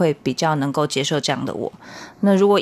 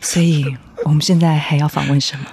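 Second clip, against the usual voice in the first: sexy late-night voice; 2 semitones lower, 3 dB louder than usual. Pretend. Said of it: "我们都这样讲话好了".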